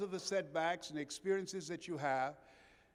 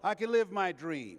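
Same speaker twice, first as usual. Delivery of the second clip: call to repeat; 7 dB louder than usual. Shown as a demonstration. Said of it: "let us say together".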